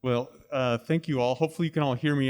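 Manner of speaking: muffled behind a face mask; speaking through a mask. Real, not acted. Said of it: "I'm speaking through the mask".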